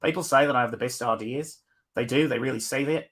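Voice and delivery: put-on a light, half-slipping Australian accent. Streamer rereads the quote in a loose Australian accent. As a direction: try an Australian accent that drifts toward New Zealand. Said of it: "I can do it in an Australian accent".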